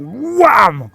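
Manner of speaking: high, loud hammer-blow burst; big comic-book hit; impact exclamation. Acted. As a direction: slam the word down hard. Game master voices hammer coming down.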